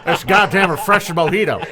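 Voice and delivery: lightly voiced folksy announcer; mock announcer relish. Commentator praising his drink, lightly mimicked gusto. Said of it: "him saying mojito".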